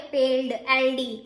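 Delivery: पेल्ड said slowly with l and d joined, no vowel between; slow demo pronunciation. Shown as a demonstration. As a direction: slowly sound out पेल्ड, then एलडी. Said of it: "sound क्या आ रही है".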